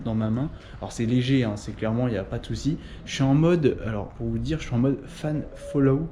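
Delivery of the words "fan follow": English term in a French accent. Real, not acted. Vlogger naming a gimbal mode, French-accented English.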